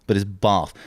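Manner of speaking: "bath" as "bahrth", long vowel; posh "bath". Shown as a demonstration. Showing the R that isn't there, "bath" said "bahrth". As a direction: stretch "bath" as if it held an R. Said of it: "There's no R in bath".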